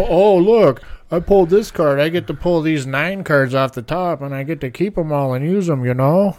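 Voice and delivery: gloating opponent voice; smug bragging mimic; mocking quote.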